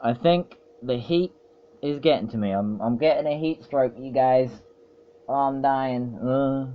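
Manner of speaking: playfully overdone complaint; melodramatic suffering. Acted. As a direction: ham up wilting in the heat. Hams up suffering from the heat.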